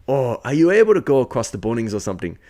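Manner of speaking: imitated Irish accent. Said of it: "his accent gets me off guard".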